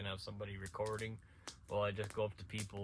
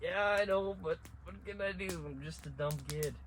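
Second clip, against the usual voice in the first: put-on kid self; 7 semitones higher, 3 dB louder than usual. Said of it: "I'm like".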